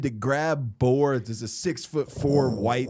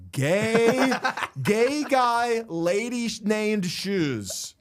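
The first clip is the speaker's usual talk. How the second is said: mock taunt, laughing; 7 semitones higher, much slower than usual. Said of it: "you were just like".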